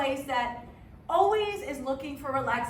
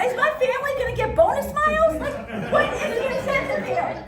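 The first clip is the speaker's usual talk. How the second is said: high, loud comic complaint; incredulous outrage; 8 semitones higher, 6 dB louder than usual. Acted. Passenger arguing about a ticket as the plane fails, incredulous. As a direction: demand an answer, pitched up and indignant.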